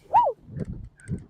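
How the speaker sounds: high whooping cheer; excited cheer. Real, not acted. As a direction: let out a happy whoop. Cheering at the beach.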